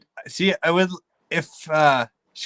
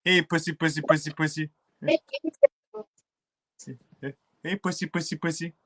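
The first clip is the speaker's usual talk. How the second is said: calling a cat; 3 semitones higher than usual. Real, not acted. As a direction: coax the cat out gently.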